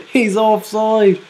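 He's offside said again through a laugh. Real, not acted. Repeating the offside call to viewers, laughing. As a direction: laugh it off in disbelief.

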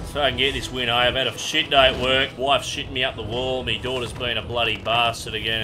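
lightly voiced gruff Aussie tradie; bricklayer character. Bricklayer trolling a Warzone teammate, lightly voiced tradie. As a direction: play a worn-out old brickie having a whinge. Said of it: "I'm playing a fifty-eight-year-old bricklayer".

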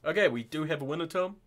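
loud, quick winner reveal; hyped giveaway announcement. Real, not acted.

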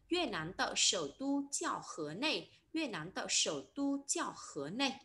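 slow model sentence with "tu" in "sổ tu"; "tu" reading. Shown as a demonstration. Teacher giving learners an example sentence, slowly modelling "sổ tu". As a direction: read it out slowly, "tu" with a plain "u" vowel. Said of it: "Tu nó sẽ đọc trong cụm từ".

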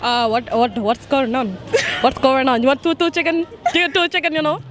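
amused put-on Indian accent. Shown as a demonstration. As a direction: chat in a mock Indian accent. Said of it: "say this in Indian".

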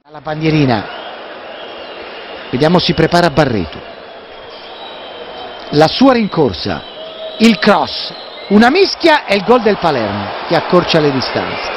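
low, flat, resigned commentary; as if it hurts to say it; deflated. Real, not acted. Conceding a goal, deflated.

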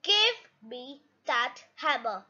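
low, slow, cross demand. Acted. Mummy Pig wanting her turn with the hammer, cross. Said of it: "says Mummy Pig crossly".

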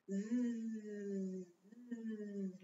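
a long buzzing zzz; buzzing bee. Shown as a demonstration. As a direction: buzz like a bee. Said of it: "like a buzzing bee".

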